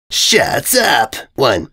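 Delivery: a hammed-up angry outburst; screamed. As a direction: cut them off with a yell. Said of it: "the invader abruptly screamed".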